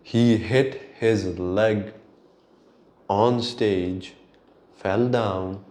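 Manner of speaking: slow, with pauses between the phrases; slow, emphatic retelling. Real, not acted. Vlogger making listeners hear the K-pop story properly, slow and deliberate. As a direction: lay it out piece by piece. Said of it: "listen to me again".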